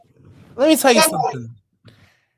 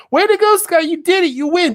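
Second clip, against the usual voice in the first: mock sarcastic praise; 3 semitones higher than usual. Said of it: "you're acting sarcastic".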